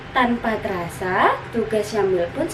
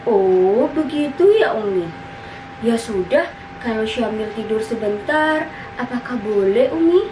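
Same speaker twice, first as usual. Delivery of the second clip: put-on louder little-boy voice with rising asks; child catching on; 4 dB louder than usual. Syamil asks his mother whether he may nap, louder child voice. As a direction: play a child accepting it, then asking hopefully.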